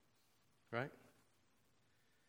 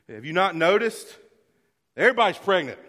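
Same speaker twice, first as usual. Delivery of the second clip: excited exclaim; 7 semitones higher, 15 dB louder than usual. Real, not acted. Joking loudly to the congregation.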